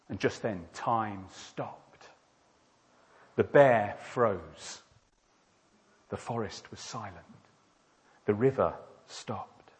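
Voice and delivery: hushed awe as everything freezes; suspenseful story narration. Acted. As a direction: let each short phrase hang. Narrates time stopping.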